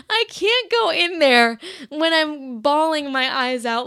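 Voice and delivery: loud, mock-distraught protest; dramatized tearful refusal; retold bawling. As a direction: complain loudly as if near tears. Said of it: "I'm already bawling".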